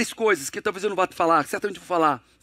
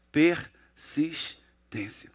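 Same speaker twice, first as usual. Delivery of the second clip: whispered reveal; 7 semitones lower, 3 dB quieter, much slower than usual. Acted. Revealing the third pillar.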